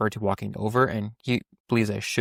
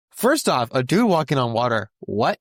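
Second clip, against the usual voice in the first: mock disbelief from a startled disciple; freaking out; 2 semitones higher than usual. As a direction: imitate someone lightly freaking out at the impossible. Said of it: "the disciples are freaking".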